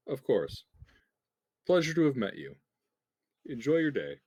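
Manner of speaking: polite gladiator. Acted. Gladiator voiced saying goodbye.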